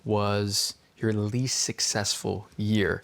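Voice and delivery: slow, calm therapist voice. Pretend. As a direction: ask gently, like a counselor. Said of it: "Pretend that I'm your therapist".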